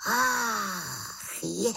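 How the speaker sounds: high sighing gasp; the witch suddenly gets it; realising exclamation. Acted. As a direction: slap your forehead aloud. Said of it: "zvolala malá čarodějnice".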